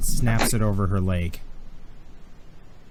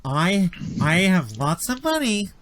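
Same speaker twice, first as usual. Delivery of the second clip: high acted pleading, growing louder; desperate bargaining; 7 semitones higher, 4 dB louder than usual. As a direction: plead for your life with a bribe. Injured victim bargains desperately.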